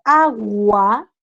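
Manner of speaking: AGUA drawn out, both U and A audible; U and A sounded. Shown as a demonstration. Teacher showing students, AGUA with U and A sounded. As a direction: stretch AGUA so the gua glides from u to a. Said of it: "donde digo la U y la A".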